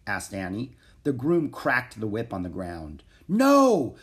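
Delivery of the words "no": high, loud shout; shouted protest. A narrator's reading. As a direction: shout to stop them at once. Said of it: "shouted Prince Alexander".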